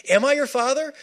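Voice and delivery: a hint of God speaking; God's voice. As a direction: plead as a father hurt by doubt. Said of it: "God is standing by going".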